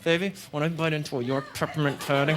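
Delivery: through clenched teeth; sexy clenched-jaw talk; lockjaw accent. Shown as a demonstration. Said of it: "talk through clenched teeth like that".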